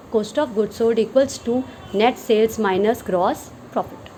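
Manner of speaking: every word spaced out slowly for note-taking; slow dictation. Shown as a demonstration. Teacher dictating a definition to students, very slowly. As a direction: read it out slowly so students can write it down.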